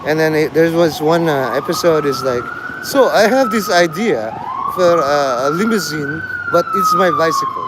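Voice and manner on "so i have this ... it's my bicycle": imitation of a comedian pitching an idea; put-on accent, lifted at the start; Nick Mullen. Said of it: "you know how, like, Nick Mullen talks?".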